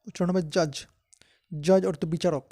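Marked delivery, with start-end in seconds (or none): 0.5-0.7 জাজ with no separate D sound; silent D. Shown as a demonstration. Teacher showing learners the word for a court judge, silent D. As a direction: say জাজ, leaving the d before g silent. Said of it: "ডি এর উচ্চারণ হবে না".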